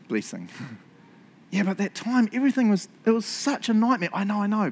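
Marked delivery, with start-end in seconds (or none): 1.5-4.7 higher-pitched protesting voice; mock complaint. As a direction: whine back a half-hearted objection. Acts out objecting to Jesus.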